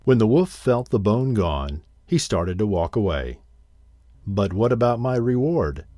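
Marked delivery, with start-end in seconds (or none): 4.2-5.8 anxious. Acted. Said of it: "called the crane anxiously".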